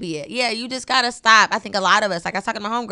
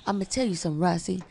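softer imitation of the co-host; Keith; 5 dB quieter, faster than usual. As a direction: gently mimic your co-host starting advice. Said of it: "This Keith's voice, y'all".

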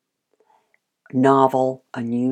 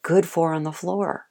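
calm praise; 2 semitones higher, 5 dB quieter than usual. Shown as a demonstration. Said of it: "turn around and go".

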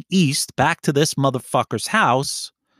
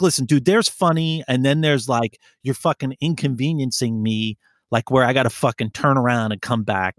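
retold anger. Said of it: "You know I was angry".

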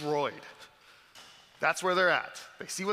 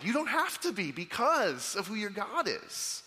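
gentle, higher loving voice; a tender reassuring tone; tender reassurance; 6 semitones higher than usual. Shown as a demonstration. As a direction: soothe the beloved. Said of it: "He's saying".

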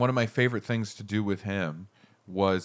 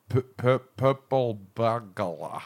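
Scottish stumble; 2 semitones lower, slower than usual. Retold or imitated. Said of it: "They're like".

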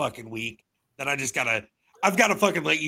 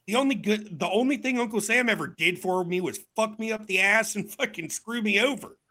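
high mock rant; 7 semitones higher than usual. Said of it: "I'm like".

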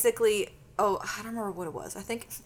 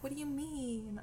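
hushed quote; 5 semitones higher, 12 dB quieter than usual. Retold or imitated. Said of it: "why am I whispering?".

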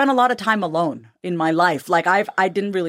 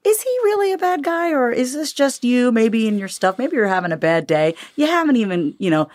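wise sage voice; 3 semitones higher than usual. Retold or imitated. His wiser self talks back to his ego, lightly voiced calm sage. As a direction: gently question yourself like a kind sage. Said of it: "this other part of me that's like".

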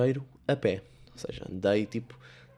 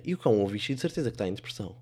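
ordinary talk

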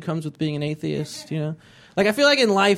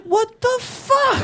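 much higher, slow squeal; shocked high-pitched disbelief; outraged god; much slower than usual. Acted. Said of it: "God comes back and he's like".

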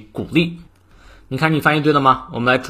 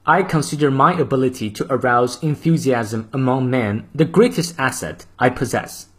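model reading. Shown as a demonstration. Teacher reading the full quote aloud for practice. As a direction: clear even English model reading. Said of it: "再来一遍".

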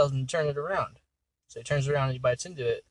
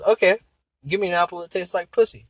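loud, raised little-man voice; midget voice; 4 semitones higher, 6 dB louder than usual. Acted. Little guy ordering his apple from the bartender, midget voice. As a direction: pitch it up for a small character's demand. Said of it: "the midget voice or whatever".

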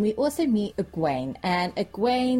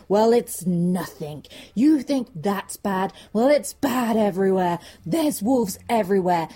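showman peddler; 3 dB louder than usual. Acted. Peddler teasing villagers with bad news, showman-like. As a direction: lay it on for the crowd, word by word. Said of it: "he's obviously a little bit of a showman".

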